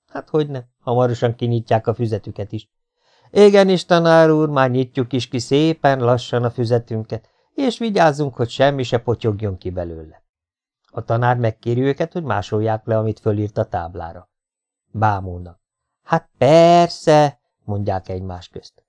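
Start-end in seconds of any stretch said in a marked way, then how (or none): 3.3-10.2 mock obedience. Students pretending to obey the teacher, hammed-up politeness. 16.0-17.4 louder, higher scoffing "of course"; sarcastic sneer. Acted. Students mocking the teacher among themselves, sarcastic.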